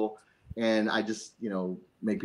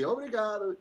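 Portuguese thanks; 10 semitones higher, 4 dB quieter than usual. Retold or imitated. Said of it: "you immediately start speaking Portuguese".

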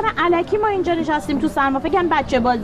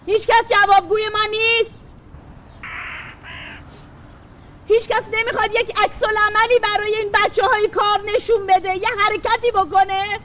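raised, pleading public appeal; passionate protest cry; 4 semitones higher than usual. Real, not acted. Protester at the ministry sit-in, calling out passionately. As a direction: call out to the crowd with rising urgency.

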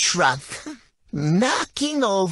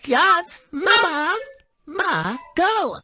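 mock whiny crying; 7 semitones higher, slower than usual.

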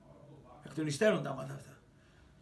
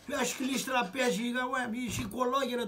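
put-on higher, taunting jab at the old man; mock angry retort; 6 semitones higher than usual. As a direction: sneer it at the father. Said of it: "του λέει". (κοροϊδευτική, θυμωμένη απάντηση)

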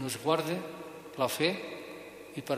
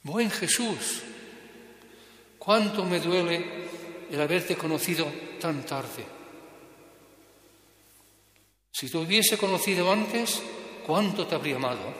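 aloud; 3 semitones higher than usual. Retold or imitated. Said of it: "dice en voz alta".

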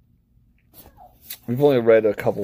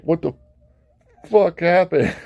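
mock bewilderment; 7 semitones higher, 3 dB louder than usual. Acts out Bilbo waking confused.

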